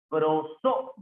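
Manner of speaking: "prosódico" with the force on "só"; teacher's demo of the stressed "só" in "prosódico". Shown as a demonstration. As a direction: lean on the second syllable of "prosódico". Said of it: "la que tiene la mayor fuerza de voz".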